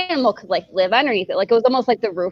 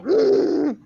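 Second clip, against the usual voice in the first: short, higher mock grunts; imitated moose grunt; 7 semitones higher than usual. Hiker imitates moose answering her doubts, short grunts. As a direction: give a couple of moose grunts. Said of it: "still grunting".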